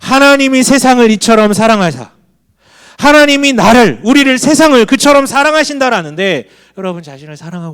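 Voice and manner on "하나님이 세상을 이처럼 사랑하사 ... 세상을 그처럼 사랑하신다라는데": loud preaching declaration; fervent proclamation. Real, not acted. Pastor proclaiming God's love to the church, loud and fervent. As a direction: proclaim it out with full force.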